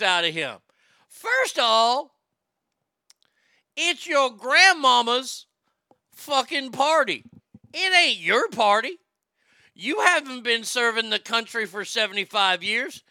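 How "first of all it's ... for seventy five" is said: angry scolding. Acted. Ranting at Harry directly.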